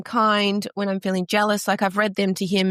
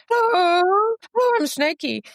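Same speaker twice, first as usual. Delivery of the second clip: high, louder playful snake-puppet voice; a silly little snake friend greeting a child; Snakey the snake puppet; 10 semitones higher, 3 dB louder than usual. Acted. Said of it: "this little guy called Snakey".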